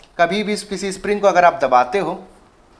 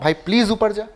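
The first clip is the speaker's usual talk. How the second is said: mock sweet plea; 2 semitones higher than usual. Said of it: "प्यार से बोलता हूँ".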